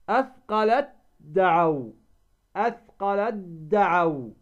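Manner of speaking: "أثقلت دعوا" as athqalad-da'awa, no t; ta merged into dal. Shown as a demonstration. Teacher showing the merging rule, ت of أثقلت becomes د. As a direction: run أثقلت into a doubled d of دعوا. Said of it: "فهنا تدغم التاء ماذا؟".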